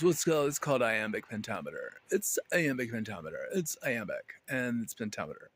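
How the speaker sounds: rattling it off fast, smug and dismissive; brisk mock lecturer reciting iambic pentameter; mock know-it-all explanation. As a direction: parrot the useless stock answer, a little sped up. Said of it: "the most helpful thing that anybody usually has to offer is".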